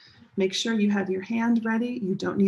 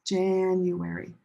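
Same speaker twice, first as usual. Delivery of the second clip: "January" slowly, with JAN held long; first-syllable stress. Shown as a demonstration. Teacher leading students to repeat, "January" as slow JAAN-uary. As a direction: lean long on the start of "January". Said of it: "Try it with me".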